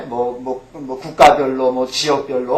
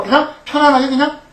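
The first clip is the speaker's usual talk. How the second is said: relaxed easy tone; 9 semitones higher than usual. Shown as a demonstration. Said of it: "편안하게 하셔야 돼요".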